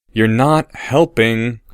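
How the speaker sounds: mild tone. Acted. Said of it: "in a mild tone".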